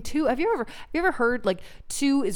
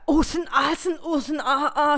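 laughing mock German; 8 semitones higher than usual. Mocking German dirty talk.

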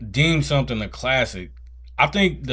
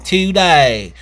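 high, slowing theme park announcement; hammy ride safety announcer; 6 semitones higher, 3 dB louder than usual. Retold or imitated.

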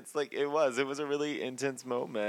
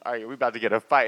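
eager producers; 7 dB louder, much faster than usual. Retold or imitated. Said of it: "the producers were probably like".

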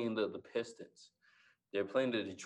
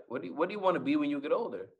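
fast, slightly higher retold question; quick question; 4 semitones higher, much faster than usual. Father suddenly asking his young son about the future, quickly. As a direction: fire off the question like dad did. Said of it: "he asked me really quickly".

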